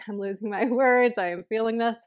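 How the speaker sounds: breathless, laughing through it; words failing from lack of air; out of breath. Real, not acted. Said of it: "Heart rate is still kinda high".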